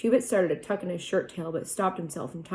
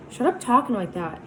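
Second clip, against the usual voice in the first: fierce; 5 semitones higher, 3 dB louder than usual. Acted. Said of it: "Two-Bit said fiercely".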